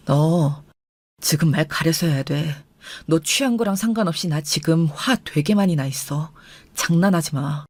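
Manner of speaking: low, controlled anger; deep-pitched, measured threat; stern warning. Acted. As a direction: warn with anger held tightly in. Husband warns wife he is angry.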